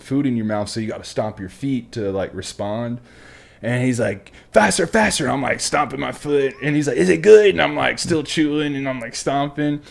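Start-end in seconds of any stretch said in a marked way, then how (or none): 4.5-5.2 high, urgent mock instructor shout; imitated barked order. Drill instructor hurrying eating recruit. 7.0-7.5 loud, high mock instructor bark; imitated taunting shout. Instructor taunting recruit mid-mouthful.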